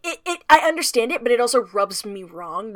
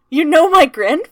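put-on excited young mole; 5 semitones higher, 8 dB louder, faster than usual. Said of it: "And he's like".

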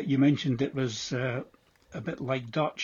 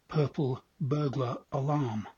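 "purple burglar alarm" in English accent with every R dropped, "puhple buhglah alahm"; English accent, leave out each R in "purple", "burglar" and "alarm"; R-less English accent; slower than usual. Shown as a demonstration. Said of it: "would say".

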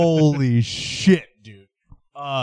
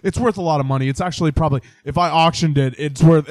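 mock musician caller; 3 semitones higher than usual. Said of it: "they're like".

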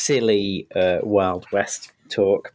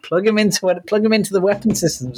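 weary dismissive Picard; 10 semitones higher than usual. Retold or imitated. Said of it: "It's like".

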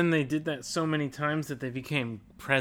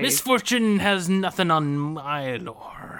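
whispered pirate voice. Pretend. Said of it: "This is a great pirate voice".

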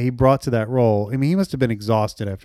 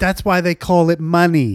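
slow, clipped Mamet-style delivery; a light take on a Mamet line; David Mamet impression; 3 semitones higher than usual. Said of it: "I love your Mamet".

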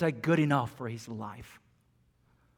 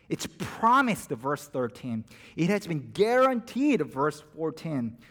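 emphatic preaching; 2 semitones higher, 5 dB louder than usual. Real, not acted. Building emphasis.

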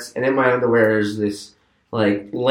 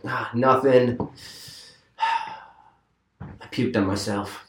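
sheepish mumble; 8 dB quieter, much slower than usual. Retold or imitated. Keith quoted, sheepish admission.

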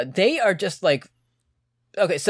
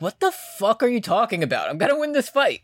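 mock defiance; 6 semitones higher than usual. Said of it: "Joe's like".

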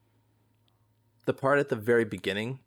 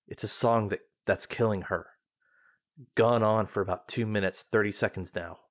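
measured, formal archive readout; log reading. A narrator's reading. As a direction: read it like a classified record. Reading a recorded log aloud.

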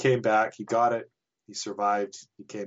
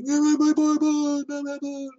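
put-on high, loud, wailing child in a panic; replaying the little boy's desperate wail; panicked child wail; 6 dB louder than usual. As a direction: cry out like a six-year-old watching his toy fall away. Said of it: "I freaked out".

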